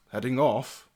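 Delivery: understated knight's query; questioning old retainer. Acted. Sir Amadeus questions his lord's departure, restrained. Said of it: "Sir Amadeus quickly looks up and goes".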